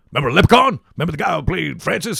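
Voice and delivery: loud, high mocking reminder; mock the casting choice; incredulous reminder. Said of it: "'cause you're like".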